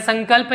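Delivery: संकल्प with the dot sounded as ङ, 'ng'; nasal as ङ. Shown as a demonstration. Teacher showing students the nasal, संकल्प with an 'ng' sound. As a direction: say संकल्प as 'sangkalp', nasal before क. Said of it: "हम अंग में पढ़ रहे हैं".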